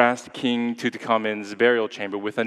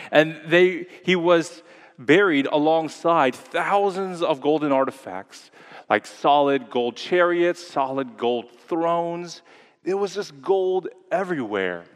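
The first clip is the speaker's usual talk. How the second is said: clickbait video narrator; 5 semitones higher than usual. Acted. Climax of the gold description.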